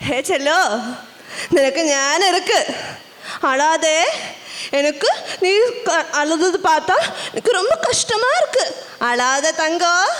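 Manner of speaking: gentle, soothing sweetheart; soothe, slowing on the last endearment; tender consoling. Acted. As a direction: comfort someone in tears. Friend consoles the crying child.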